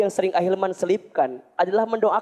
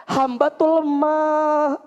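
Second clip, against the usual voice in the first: earnest pleading prayer; 3 semitones higher, slower than usual. Shown as a demonstration. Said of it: "Ibu tuh kudu minta bener".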